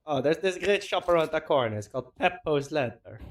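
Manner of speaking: a faint Italian accent attempt that slips toward Swedish; mock Italian accent. Caster jokingly inventing Peppo's shoe shop, faint Italian accent. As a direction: lightly put on an Italian shopkeeper accent. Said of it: "I don't know why I turned Swedish there".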